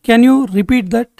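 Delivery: slow, careful repeat for learners; slowed teaching voice. Shown as a demonstration. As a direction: say it again slowly for the class. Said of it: "phrase lesson, normal then slow".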